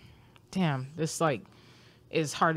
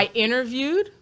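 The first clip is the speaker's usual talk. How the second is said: whispering; 7 semitones higher, 3 dB louder than usual. Real, not acted. Whispered aside about Georgetown.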